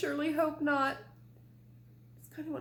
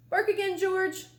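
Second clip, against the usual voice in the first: louder, higher vet voice; vet's command; 7 semitones higher, 6 dB louder than usual. Acted. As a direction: tell him firmly.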